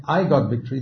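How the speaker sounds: weight on "I", the first word; stress on I. Shown as a demonstration. Contrasting two testimonies for the congregation, stress on "I". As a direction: lean on "I" to claim the credit. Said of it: "the emphasis is on the I".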